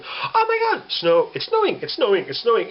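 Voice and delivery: high, gushing mock status-post voice; lightly voiced giddy poster; mock excitement. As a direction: parody breathless snow posts. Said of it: "people to post a status going".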